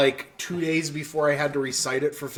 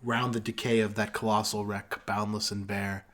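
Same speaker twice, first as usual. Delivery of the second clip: poem recitation; 3 semitones lower than usual. Acted. Finishing Ozymandias for friends, slow and hushed. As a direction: let it fade to a hush.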